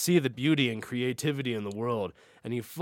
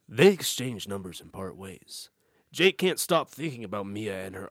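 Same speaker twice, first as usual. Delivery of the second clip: narrator voice; 5 semitones lower than usual. Shown as a demonstration. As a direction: read it like a film narrator. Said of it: "I gotta get a narrator voice".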